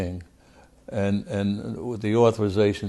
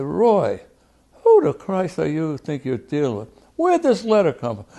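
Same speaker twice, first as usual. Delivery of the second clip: raised pitch, indignant re-enactment; retold angry confrontation; 7 semitones higher, 4 dB louder than usual. Congressman confronting Roy over a forged letter, angry. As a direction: tear into him as you retell it.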